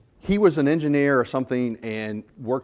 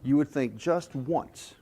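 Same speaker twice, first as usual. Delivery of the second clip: tearful wife; 5 dB quieter, slower than usual. Acted. Wife voiced in joke.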